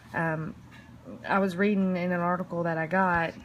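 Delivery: nervous, shaky voice; stage fright. Real, not acted. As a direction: voice trembling with nerves. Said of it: "sorry, I'm shaking".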